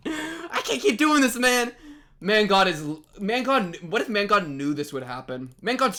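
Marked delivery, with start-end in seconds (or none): 0.1-1.7 high, loud, drawn-out despair; fed up with the show, a high, slow wail; exasperated wail. Real, not acted. Exasperated at repeated plot.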